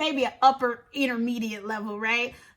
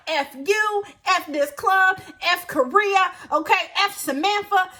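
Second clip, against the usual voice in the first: re-enacted rant, pitched higher; angry outburst; 4 semitones higher, 3 dB louder than usual. Clubber cursing out the bouncer, angry. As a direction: go in on him, punching each item. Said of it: "Anger, all the frustration that I've had all day just comes out".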